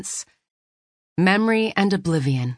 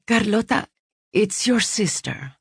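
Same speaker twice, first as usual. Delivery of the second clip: sister's voice; 5 semitones higher than usual. Acted. Unknown sister on phone.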